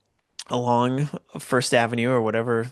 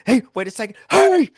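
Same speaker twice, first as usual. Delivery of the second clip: high, loud calling out; 11 semitones higher, 7 dB louder than usual. Retold or imitated. Friend spotting the bike thief, high loud call. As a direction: shout after the thief.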